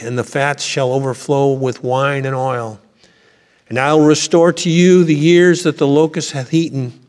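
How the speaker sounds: solemn, lofty King James reading to the congregation; scripture reading. Acted. Preacher reading Joel to the congregation, solemn and lofty. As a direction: proclaim the verses like a herald.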